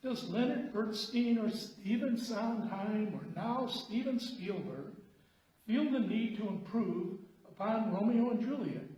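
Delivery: lightly acted complaint, with swooping emphasis; complaining friend. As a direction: imitate an opinionated buddy griping about musicals. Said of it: "he complained".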